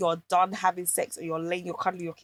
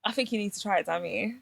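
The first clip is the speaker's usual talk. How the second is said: hushed teasing suggestion; soft suggestive; 7 dB quieter than usual. Real, not acted. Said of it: "why did you say it like that?".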